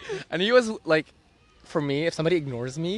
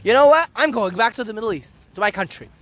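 mock dramatic threat; 2 semitones higher than usual. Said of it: "my manipulative side came in".

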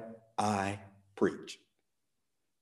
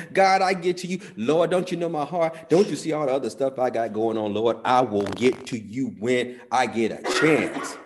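mock excuse; 2 semitones higher, 5 dB louder than usual. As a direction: play the busy believer putting God off. Mocking churchgoers putting God off.

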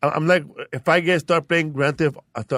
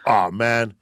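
black voice; 3 semitones lower than usual. Retold or imitated. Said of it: "goes back to the black voice".

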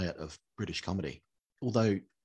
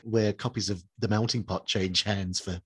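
laughing; 2 semitones higher, 5 dB louder, slower than usual. Real, not acted. Laughing through a joke.

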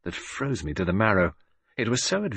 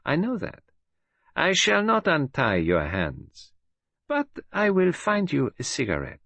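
menacing villainess; 11 semitones higher than usual. A narrator's reading. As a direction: gloat over a trapped enemy.

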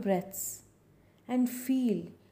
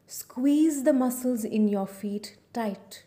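whispered. Acted. Relaxation script instruction.

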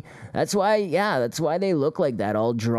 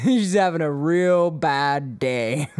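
laughing; slower than usual. Real, not acted. Laughing at the clip.

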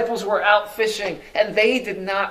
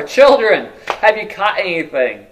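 calling from shore; 3 semitones higher, 6 dB louder than usual. Acted. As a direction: shout it across the water. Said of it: "calling to them from shore".

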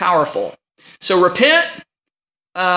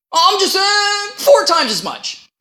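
mock flustered Zacchaeus; 9 semitones higher than usual. Mocking invented number.

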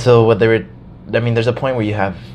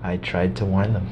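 lowered, softer grim voice; imitating a solemn Musk who tried to warn them; grave Elon Musk quote; 4 semitones lower, 6 dB quieter than usual. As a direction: quietly deliver a doomed warning. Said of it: "this is how he responds".

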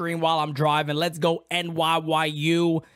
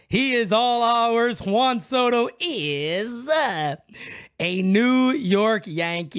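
proud proclamation; 4 semitones higher, slower than usual. Real, not acted. Proclaiming new star signing.

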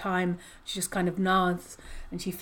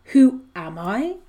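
slow, louder monster voice, booming the question; monster getting louder; 6 dB louder than usual. Acted. Reading the monster's reply to Connor, slow and louder. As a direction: let the monster's question grow big and slow. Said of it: "its voice getting louder".

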